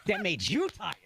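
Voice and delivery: exasperated, laughing. Retold or imitated. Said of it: "if I dare open my mouth to go".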